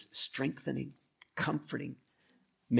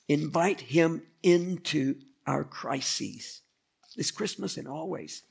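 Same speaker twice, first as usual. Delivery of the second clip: slow, deliberate; 4 semitones higher, slower than usual. Real, not acted.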